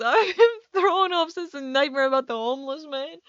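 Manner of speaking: giggling while telling a nightmare story; words broken by real laughter; laughing through it. Real, not acted. Laughing while telling viewers about the nightmare.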